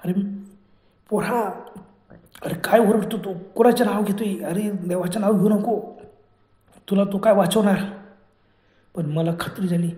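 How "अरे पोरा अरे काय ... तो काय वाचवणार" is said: mildly voiced angry witch scolding; forceful reprimand, only slightly raised; scolding yell. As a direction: scold the boy for calling on God. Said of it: "मोठमोठ्या ओरडायला लागली".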